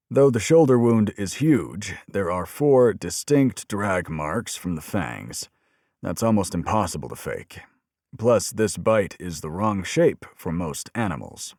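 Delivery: a hint of a tubby old examiner, matter-of-fact; lightly voiced medical examiner. Examiner showing the detective the fang marks, lightly voiced. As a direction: explain the wound calmly, partly slowed.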